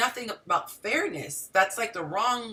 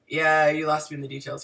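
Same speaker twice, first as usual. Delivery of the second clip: imitating a blunt guy, pitched lower; deadpan brush-off, lightly put on; 4 semitones lower than usual. Male friend cutting off her long story, blunt. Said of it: "He's so blunt".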